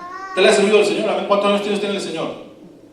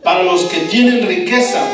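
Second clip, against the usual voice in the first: strong exclamatory tone; 3 semitones higher, 3 dB louder than usual. Acted. Jesus warning his disciples about the rich, forceful exclamation. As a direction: proclaim it as a stern warning. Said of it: "lo está diciendo en un tono fuerte".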